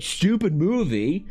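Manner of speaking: high, slow, drawn-out indignant question; mock offended disbelief. Tron fan repeating the insult, high slow mock indignation. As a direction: echo the insult in mock shock.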